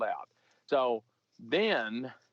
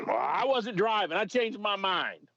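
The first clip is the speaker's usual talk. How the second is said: higher, slow sheepish voice; suspect's excuse; 8 semitones higher, slower than usual. Retold or imitated. Suspect backing out to the officer, higher and slow. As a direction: drag it out sheepishly. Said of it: "suspect answering officer".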